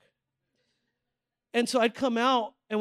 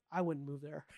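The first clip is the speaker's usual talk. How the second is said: laughing quote; 6 semitones lower, 12 dB quieter than usual. Retold or imitated.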